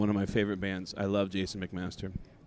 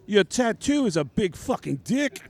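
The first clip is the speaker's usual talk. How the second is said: higher, louder mock rock-singer voice for a rock singer; imitating the singer; 9 semitones higher, 4 dB louder than usual. Voicing a rock singer in story.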